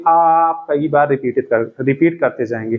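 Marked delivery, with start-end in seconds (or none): 0.1-0.6 आप with its opening "aa" held long; prolonged vowel. Shown as a demonstration. Teacher shows the vowel after "ra" repeating, आप drawn out. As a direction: stretch the first vowel of आप slowly. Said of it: "रा के बाद जो आप बोलते जाएंगे".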